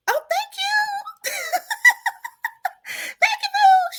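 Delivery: high, tearful, laughing thank-you; emotional thanks to the realtor who helped, laugh-crying. Real, not acted. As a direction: overcome with grateful happy tears, voice cracking high.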